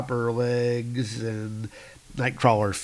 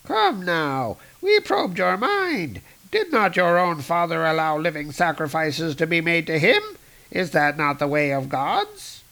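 higher, smug alien; alien cultist voice; 5 semitones higher than usual. Acted. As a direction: reason with the captive coolly. Alien reasons with him.

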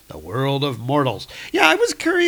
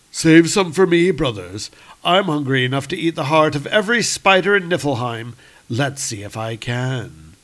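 growling monster voice; 2 semitones higher, 3 dB louder than usual. Acted. Monster craving spider hearts.

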